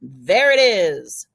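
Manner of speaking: a light magician's flourish on Voilà, there it is. Retold or imitated. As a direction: reveal the rabbit like a showman, lightly. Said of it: "they'll pull the rabbit from the hat and go".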